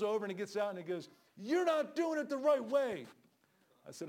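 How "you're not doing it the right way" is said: higher, louder and slow, a scolding stranger; mock indignant critic. Stranger pulls over to tell the preacher off, loud and slow. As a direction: wag a finger at the preacher, slowly.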